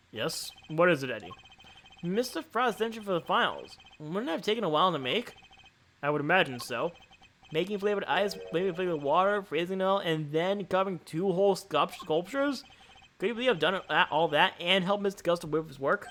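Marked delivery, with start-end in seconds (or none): 2.0-5.3 lightly voiced Eddie, a bit higher; questioning sidekick. Eddie questioning the timing to his boss, lightly higher voice. 7.5-16.1 lightly raised Eddie voice; questioning sidekick. Acted. Reader voices Eddie in dialogue.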